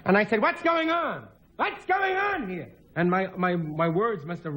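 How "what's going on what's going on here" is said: high mock shout, slowing down; alarmed mother. Mother bursting in on a fight between her sons, high mock shout.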